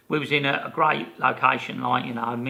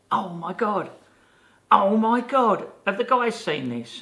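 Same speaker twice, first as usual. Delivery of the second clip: mock shocked gasp, pitched higher; retold shock; 8 semitones higher, 4 dB louder than usual. Crew woman seeing the Ghostbusters tattoos, mock shocked. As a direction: act her alarm at the tattoos, voice jumping up.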